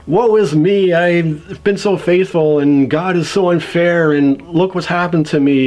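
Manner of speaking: put-upon complaining; mock lament. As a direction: act out an aggrieved lament. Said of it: "Job starts this long epic complaint".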